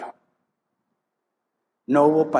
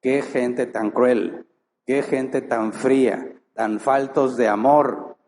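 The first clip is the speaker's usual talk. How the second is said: slow, reproachful "qué gente tan cruel"; mock accusation; slower than usual. Preacher imitating critics of the church, slow and reproachful. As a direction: imitate an outsider's indignant complaint. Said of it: "va a acusarnos".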